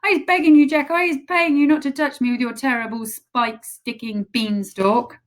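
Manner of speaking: high, loud begging scream; screaming plea. Acted. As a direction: beg for mercy in terror. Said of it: "screamed the flesh lump eater".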